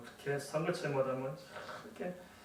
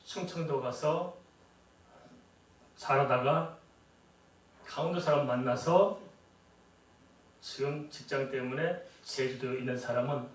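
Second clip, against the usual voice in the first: ordinary delivery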